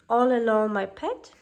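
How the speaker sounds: a lightly voiced old crone, coaxing; old peddler woman. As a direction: sweet-talk like a scheming old hag.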